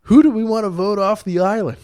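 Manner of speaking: high, loud game-show host. Retold or imitated. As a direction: announce it like a reality host. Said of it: "everybody votes".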